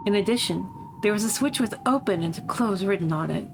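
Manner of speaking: measured storytelling in a lightly affected voice; lightly voiced game narrator. Reading a creepy story to viewers, lightly affected narrator. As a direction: read it as a character recounting events.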